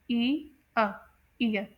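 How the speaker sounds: ई अ apart, then glided into ईयर; diphthong broken down. Shown as a demonstration. Teacher splits the sound for students, diphthong demonstration. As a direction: say ई and अ separately, then blend. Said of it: "इसमें डिफथॉन्ग sound आएगी".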